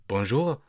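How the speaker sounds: Bonjour with a French throaty R. Shown as a demonstration. Teacher showing learners the French R in Bonjour. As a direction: roll the R at the back of the throat in Bonjour. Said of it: "like in bonjour".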